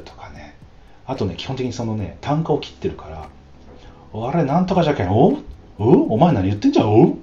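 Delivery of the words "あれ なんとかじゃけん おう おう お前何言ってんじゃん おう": higher, louder menacing Hiroshima gangster; Hiroshima yakuza threat. Retold or imitated. 映画のヤクザの口論を真似る, loud threatening Hiroshima growl. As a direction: bark it like a Hiroshima thug picking a fight. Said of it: "もうバリバリの広島弁で".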